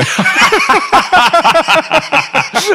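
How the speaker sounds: loud high laugh; high burst of laughter. Real, not acted. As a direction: crack up laughing. Laughs at own joke.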